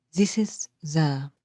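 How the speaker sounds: slow "This is the", first word stressed, next two light. Shown as a demonstration. Teacher reading the line again, dactylic stress on "This". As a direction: lean on "This", then let "is the" fall light. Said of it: "here the stress is on this".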